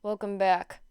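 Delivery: lazy, drawn-out yawn through the words. Acted. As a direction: say it mid-yawn, half asleep. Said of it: "Aizawa yawned".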